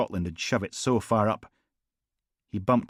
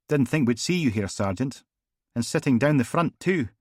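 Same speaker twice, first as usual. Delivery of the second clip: higher, louder mock surprise; needling inspector; 6 semitones higher, 5 dB louder than usual. Inspector mocking Logan's front-row seat, teasing. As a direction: raise the voice in teasing disbelief.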